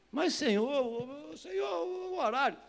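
high, stretched-out pleading whine; wheedling, high-pitched objection; whiny protest. Acted. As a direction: whine an excuse to the boss. Whining protest to the Lord.

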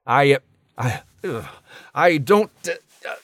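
squirming from the itching; groaning at an unbearable itch; itchy fidgeting. Acted. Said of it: "oh, this itching".

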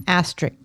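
ASTERISK said as "AS-trik"; mispronounced asterisk. Shown as a demonstration. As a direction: drop the middle syllable and final s, "astrick". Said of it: "pronounce it as I would".

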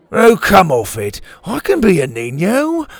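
high, loud whiny protest; a kid pleading his case; whining boy. A narrator's reading. Dante protests to Dora.

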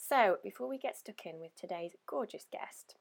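hoarse from being ill; croaky, worn-out voice. Real, not acted. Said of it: "apologies for my croaky voice".

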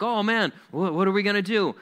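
high-pitched imitation of panic; mock freaking out. Israelites as Pharaoh chases them, mock panic. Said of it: "they're freaking out again".

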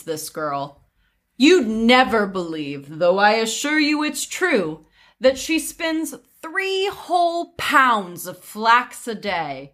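sweetly overdone sincerity; disguised sarcasm. Acted. Widow deceiving the nosy prince, veiled sarcasm. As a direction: feign polite praise with lilting stresses. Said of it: "with well-disguised sarcasm".

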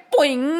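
drawn-out, ringing boing noise; springy boing. A narrator's reading. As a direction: bounce the word like a spring. Sound effect of the serpent thrown.

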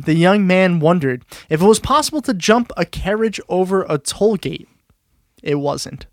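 lively narration, sentence ends dropping; story read-aloud. Acted. Host reading an eccentric lord's exploits to co-hosts, storytelling. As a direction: read it out like a humorous anecdote.

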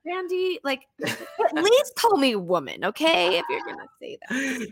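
high, laughing jab at Randy; amused mock protest to Randy; laughing retort. Real, not acted. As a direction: tease back while laughing.

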